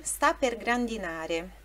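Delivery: slow, deliberate reading of the lyric; slow careful recital. Shown as a demonstration. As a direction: say each word slowly for students. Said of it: "a sílaba tônica é grandinare".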